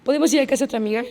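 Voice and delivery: quick, casual request; acting normal. Girl smiling through it to her friend, hurriedly casual. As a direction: imitate asking as if nothing happened. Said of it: "Y yo, normal, hasta sonreí".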